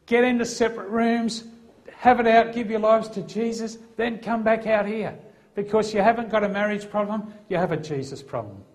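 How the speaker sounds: forceful, no-nonsense command; assertive. Retold or imitated. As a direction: lay down the law to a squabbling couple. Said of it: "Now that sounds pretty assertive".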